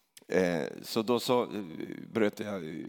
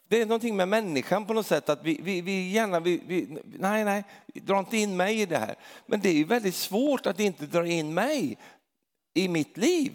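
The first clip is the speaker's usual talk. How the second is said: impassioned preaching; 8 semitones higher than usual. Acted. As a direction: preach it with rising fervour. Preaching at high pitch. (ivrig predikan, hög röst)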